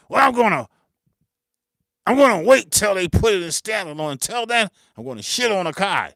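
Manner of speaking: mocking whiner. Acted argument, other side voiced.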